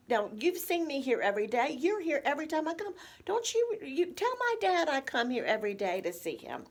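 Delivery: mock exasperated demand for a witness; insistent appeal. Adult child pulls in a staff member, insistent. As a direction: pitch leaps up, pleading for backup.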